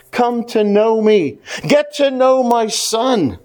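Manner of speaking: slow, mildly pleading invitation. Retold or imitated. God inviting people to know his son, mildly pleading. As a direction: draw the words out in gentle appeal. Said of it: "he pleads with us".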